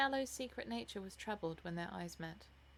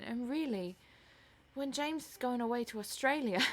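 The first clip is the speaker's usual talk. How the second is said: higher, querulous motherly scolding; theatrical mother, reproachful; 4 semitones higher, 4 dB louder than usual. Acted. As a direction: reproach your daughter with stagey concern. Voices the disapproving stage mother.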